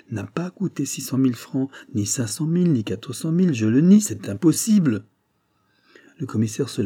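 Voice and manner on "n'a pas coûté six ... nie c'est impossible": rising, louder protest; heated denial. Acted. Accused clerk protesting his innocence to the judge, heated. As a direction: push back harder each time.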